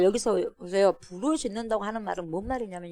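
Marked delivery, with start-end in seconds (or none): none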